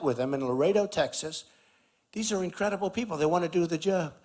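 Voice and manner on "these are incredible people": ordinary talk, nothing marked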